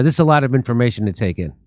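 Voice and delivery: mock overwhelmed friend. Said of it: "what they say back to me".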